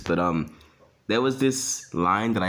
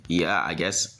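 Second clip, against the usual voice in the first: put-on reluctant girl; 3 semitones lower, slower than usual. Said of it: "And you'd be like".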